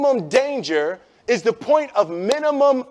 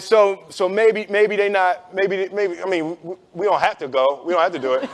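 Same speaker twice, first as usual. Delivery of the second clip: backing out. Retold or imitated. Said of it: "And you're like".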